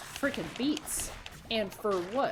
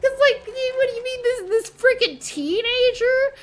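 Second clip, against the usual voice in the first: much higher and louder, exasperated; heated outrage; 14 semitones higher, 8 dB louder than usual. Real, not acted. Fan describing the villain's rage, heated outburst. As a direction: rant at the unfairness of it all.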